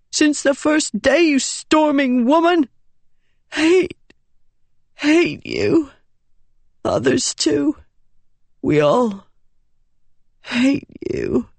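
put-on high, fading boy's voice full of hate; a dying boy cursing her with his last breath; bitter hurt boy.

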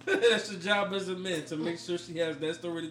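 laughing through the words. Real, not acted. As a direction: crack up while saying it. Repeats himself, breaking into laughter.

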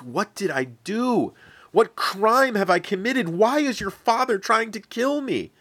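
rising into a frightened, breathless plea; frightened pleading. Acted. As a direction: ask as if your life hangs on the answer. David begging Jonathan for answers.

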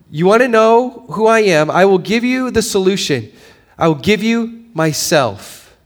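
preacher booming God's words to the congregation; preaching God's voice. Retold or imitated. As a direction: proclaim it as God's promise.

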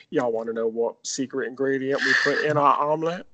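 lightly put-on dopey voice. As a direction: say it like a mock dimwit employee. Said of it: "Why you going with that voice".

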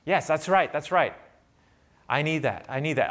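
imitating an eager listener saying yes, softening at the end; eager crowd agreeing. Preacher voicing the crowd nodding along, eagerly. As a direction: play a hungry crowd member nodding along. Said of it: "so we'd say".

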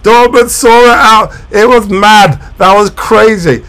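high, loud, racing play-by-play; breathless fan calling a crazy finish; excited live commentary. Real, not acted. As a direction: call the final minutes like the goal just went in. Live reaction to late goal.

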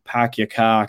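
dropped-R Boston "pahk ya cah"; light Boston accent, R's dropped. Retold or imitated. Quoting locals they grew up with, Boston accent. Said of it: "grown up with people who speak in".

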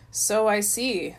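slow, glum reply. Acted. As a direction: drag it out, unimpressed. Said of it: "observed glumly".

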